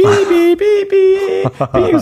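very high, piercing vocal beeps; modem beeping imitation. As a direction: mimic a dial-up modem's long beeps. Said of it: "소리 나고". (모뎀 연결음을 높게 흉내 내는 삐 소리)

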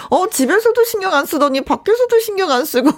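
high sulky whining complaint; whiny spoiled pouty drawl. Acted. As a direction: whine like a spoiled wife. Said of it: "애교스러운 여자가 앙탈 느낌으로만".

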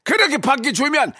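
high mock-angry demonstration. Shown as a demonstration. Host demonstrates for caller, high mock scolding. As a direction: send them out in a high scolding voice. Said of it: "더 크게".

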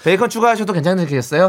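lightly acted fast-food cashier; a touch of routine clerk talk; businesslike counter clerk. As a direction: confirm the order with scripted service politeness. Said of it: "사무적인 말투죠".

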